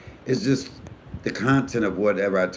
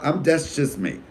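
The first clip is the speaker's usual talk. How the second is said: ordinary delivery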